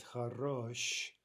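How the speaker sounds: "хорош" with the second syllable stressed; stress on stem. Shown as a demonstration. Teacher saying look at the stress, "хорош" stressed on рош. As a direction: lean on the final "рош" of "хорош". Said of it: "Look at the stress".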